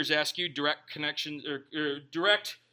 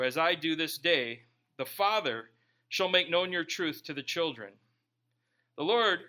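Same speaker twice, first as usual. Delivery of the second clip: scripture reading; 2 semitones lower than usual. Acted. Preacher reading scripture to the congregation, solemn. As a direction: read the text with reverent weight.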